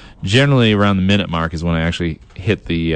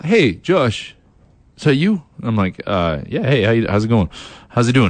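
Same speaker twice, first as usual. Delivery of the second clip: put-on East Coast accent. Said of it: "I speak in a, uh, East Coast accent".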